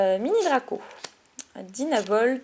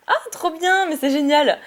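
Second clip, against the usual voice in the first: delighted; 4 semitones higher than usual. Real, not acted. Delighted at the pulled card.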